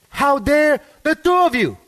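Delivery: hammed-up offended snap at two friends; mock outrage. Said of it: "then she says".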